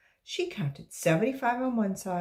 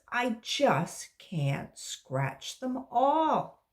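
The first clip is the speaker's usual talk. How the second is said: put-on child; 5 semitones higher, 5 dB louder than usual. Child explains itching.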